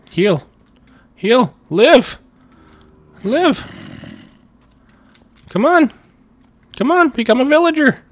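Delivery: high, loud, desperate urging; will it to come back to life; urgent pleading shout. Real, not acted. Streamer urging the zombie villager to heal, in a high loud plea.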